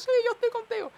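high, loud rallying cry; imagined supporter's cheer. Retold or imitated. Onlooker backing the young man, high loud cheer. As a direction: cheer him on as one of the crowd. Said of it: "empezar a aplaudir como que".

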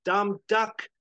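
high, loud shouted insult; shouting over noise. Acted. Chet shouts over the lightning at Howard, shouting. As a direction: yell it over a storm. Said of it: "shouting over the, the lightning and everything".

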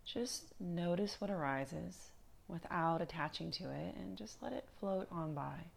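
calm, unhurried meditation guide with long pauses; guided meditation. Acted. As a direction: ease them gently through body and breath, leaving space between phrases.

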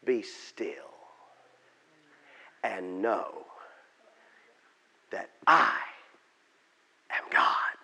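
low, measured words with long pauses; still, solemn divine voice; calm, hushed God. Acted. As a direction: say it gently, word by word, letting silence fall. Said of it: "Except God said it like this".

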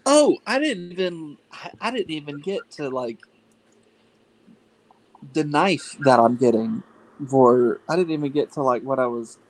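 muffled, face in a pillow; talking into a pillow. Real, not acted. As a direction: speak with your mouth pressed into a pillow. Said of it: "try not to talk into the pillow. You're a little muffled".

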